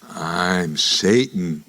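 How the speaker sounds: low, very slow devil voice, lightly done; lightly voiced devil. Devil reveals himself on the subway, low slow. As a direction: drag out the name like a devil.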